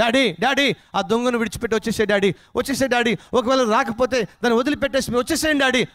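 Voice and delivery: high, pleading calls to Daddy; children's loud cries. Acted. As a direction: imitate children crying out for their father. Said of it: "బిడ్డలు గట్టిగా కేకలు వేస్తున్నారు". (పిల్లల ఆర్తనాదంలా కేకలు)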